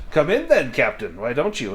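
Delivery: lightly voiced host; merchant welcoming. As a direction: invite the captain in warmly.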